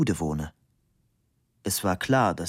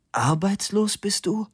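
much higher, surprised question; startled question; 11 semitones higher than usual. A narrator's reading. Cornelia learning her lover is jobless, startled question. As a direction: ask it high, taken aback.

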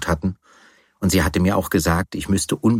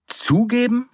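shrieked question, much higher; shout. Acted. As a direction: shout the word back in disbelief. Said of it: "schrie ich".

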